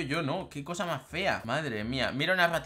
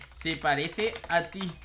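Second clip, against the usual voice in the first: lento y recalcado; slower than usual. Acted. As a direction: deliver the insult slowly, piece by piece. Lo repite despacio al escribirlo. (despacio y recalcado, con sorna)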